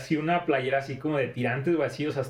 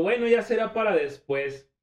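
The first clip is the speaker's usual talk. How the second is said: higher, slow, lightly voiced teacher; 7 semitones higher than usual. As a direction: let her sigh it off slowly. Teacher's disappointed reply.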